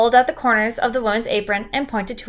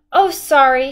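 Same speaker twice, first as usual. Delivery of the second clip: crying; 4 semitones higher, 5 dB louder than usual. A narrator's reading. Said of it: "she cried".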